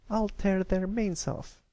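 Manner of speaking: high, slow filly fuming at the bullies; seething threat, slow and high. A narrator's reading. Scootaloo vowing revenge on bullies, fuming. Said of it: "Scootaloo fumed".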